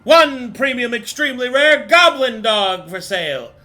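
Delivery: auctioneer. Acted. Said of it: "the auctioneer starts going off".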